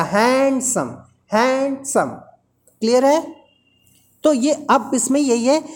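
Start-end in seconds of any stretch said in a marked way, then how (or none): 0.0-2.1 "हैंडसम" split into a long हैंड and short सम; two-syllable demo. Shown as a demonstration. Teacher shows learners it has two syllables, word split in two. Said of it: "syllable तो दो हो जाएगा".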